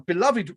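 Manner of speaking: "beloved" said deliberately in three syllables; stress on beloved. Shown as a demonstration. Host introduces the site's regulars, stressing "beloved". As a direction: lean on the word "beloved". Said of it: "I stress the word beloved".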